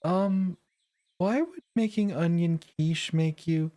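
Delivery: half-laughing reproach to a friend; playfully cross girl. Acted. Mirabelle scolding playfully.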